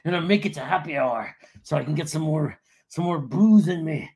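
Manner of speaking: lightly hammed-up perky wake-up voice; mock cheery morning person. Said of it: "she's just like".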